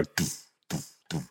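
soft, low doof doof beats; EastEnders drum sting. Retold or imitated. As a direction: hum the cliffhanger drums quietly. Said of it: "then it will go".

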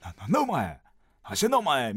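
lightly mimicked Edokko comic, stuttered start; a hint of brusque Tokyo banter; Takeshi impression. Comedian scolding his manzai partners, light Takeshi impression. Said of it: "みたいなたけしさんで行く".

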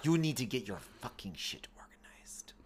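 slow, whispered bad Italian accent. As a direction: hiss it in a hammy Italian accent. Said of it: "impersonation of a singer's really bad Italian accent".

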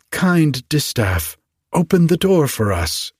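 high, coaxing fairy call; storybook request called out high; calling plea. A narrator's reading. Fairies calling to be let in.

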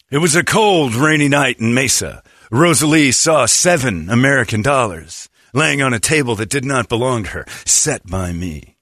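slow moody noir narration; noir detective. Retold or imitated. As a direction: tell it like a hardboiled detective. Bartender narrates his trap.

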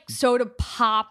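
soda pop, drawn out slowly; slow Pittsburgh-style "soda pop"; Pittsburgh wording. Retold or imitated. Guest quoting what Pittsburgh says, soda pop stretched out. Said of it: "They say, like".

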